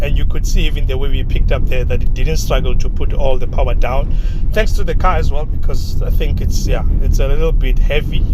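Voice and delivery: talking while bouncing on gravel; on a bumpy road. Real, not acted. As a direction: voice jolted by a rough road. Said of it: "we are on gravel now".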